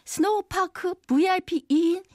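upbeat TV shopping pitch; home shopping host. Pretend. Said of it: "제가 홈쇼핑처럼 읽어드릴게요".

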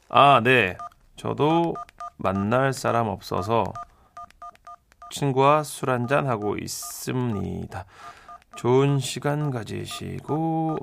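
smooth gentleman. Shown as a demonstration. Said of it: "봐봐, 인마. 이 정도는 돼야지".

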